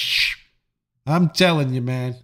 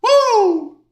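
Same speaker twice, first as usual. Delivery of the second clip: hype celebration; 13 semitones higher, slower than usual. Pretend. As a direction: cheer like you're doing a goofy subscribe dance. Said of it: "y'all like that subscription dance".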